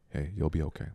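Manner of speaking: low, gentle reassurance; retold comforting. Retelling comforting a weeping friend, low and gentle. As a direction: softly soothe someone who is upset.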